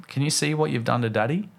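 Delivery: measured, gentle reproach; very calm. Retold or imitated. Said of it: "in the calmest voice possible".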